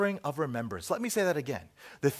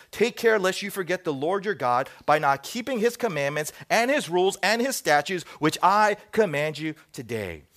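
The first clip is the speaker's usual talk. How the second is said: emphatic, raised public Bible reading; scripture reading; 3 semitones higher, 5 dB louder than usual. Acted. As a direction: proclaim the verse to a congregation. Reads scripture aloud.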